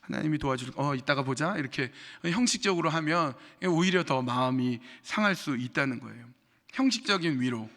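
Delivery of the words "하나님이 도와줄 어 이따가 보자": a hint of a careless friend; distracted comfort. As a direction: say it while looking elsewhere, not caring. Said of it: "딴 데 보면서".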